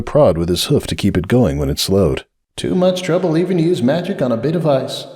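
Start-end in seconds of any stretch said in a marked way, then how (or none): 2.5-5.1 sighing. A narrator's reading. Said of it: "he sighed".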